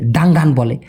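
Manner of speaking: ডাঙ্গান with an open a vowel; ডাঙ্গান said wrongly with open a; wrong pronunciation. Shown as a demonstration. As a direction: mispronounce it as ডাঙ্গান, wide a. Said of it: "অনেকে উচ্চারণ করতে পারে না".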